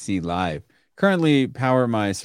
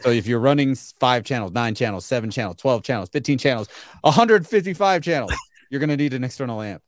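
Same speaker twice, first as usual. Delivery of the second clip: hard-sell pitch. Pretend. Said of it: "is that your sales pitch right there?".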